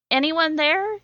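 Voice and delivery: a lightly acted thin voice. A narrator's reading. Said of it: "you ask in a thin voice".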